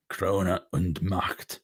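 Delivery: very slow amateur German accent; terrible German accent. Shown as a demonstration. Author presenting the new translated book, terrible German accent. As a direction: spell out the title slowly in clumsy German. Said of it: "Sorry for my terrible German accent".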